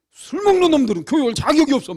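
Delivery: loud, high-pitched angry telling-off; booming rebuke, acted out; re-enacted tirade. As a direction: thunder at the drunkards as if scolding them. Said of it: "막 내가 막 그렇게 호통치고".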